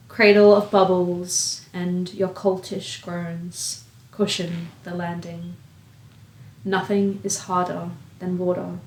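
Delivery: measured poem recital with long pauses; spoken-word poem, evenly paced and spaced out; poetry reading. Acted. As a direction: read each line deliberately, letting it hang. Reads a poem aloud.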